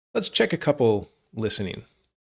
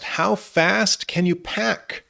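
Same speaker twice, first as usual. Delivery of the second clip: slow repeat; 6 semitones higher, slower than usual. Shown as a demonstration. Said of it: "I think she asked".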